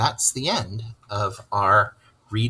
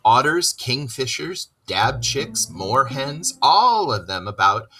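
high, rising list from a proud water rat; climbing higher with each phrase; enthusiastic Rat; 5 semitones higher than usual. Acted. Rat tells Mole about his river, high and rising.

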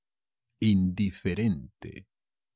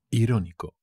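"Irónico" with the stress on RÓ; stress on first O; faster than usual. Shown as a demonstration. Teacher showing learners where the accent falls, "Irónico" stressed on RÓ. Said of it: "Con acento en la primera O".

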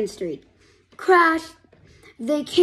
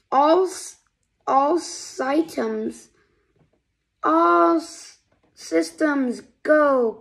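loud, slow eager launch call; cried out; 3 semitones higher, 4 dB louder, slower than usual. Acted. Robot Hubby announcing takeoff, eager cry. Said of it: "cried Hubby".

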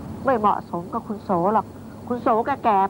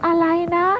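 shocked; 8 semitones higher, 3 dB louder than usual. Acted. Nanny shocked by drugging.

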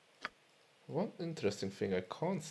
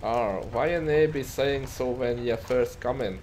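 put-on Scottish accent; 3 semitones higher, 5 dB louder than usual. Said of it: "I would say a bit Scottish".

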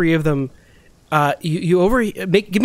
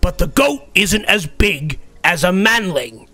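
troll arguing; 3 semitones higher than usual. Acted. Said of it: "the other troll says".

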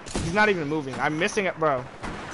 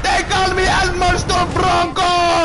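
hype announcer shout; 5 semitones higher, 3 dB louder, slower than usual. Pretend.

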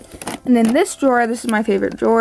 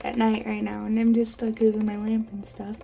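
talking around an orthodontic appliance; overbite appliance in mouth; 5 dB quieter than usual. Real, not acted. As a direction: speak with a dental appliance in. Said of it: "I'm sorry for how funny I sound".

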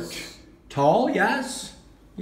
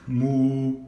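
cow moo; 4 semitones lower than usual. Shown as a demonstration. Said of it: "What's that one?".

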